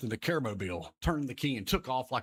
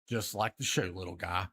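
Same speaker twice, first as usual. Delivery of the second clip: Care Bear answering; 4 semitones lower than usual. Acted. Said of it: "Care Bear points at the kid and goes".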